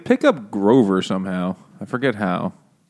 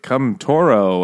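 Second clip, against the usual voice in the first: mock bullfighter; 2 semitones higher, slower than usual. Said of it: "he's like".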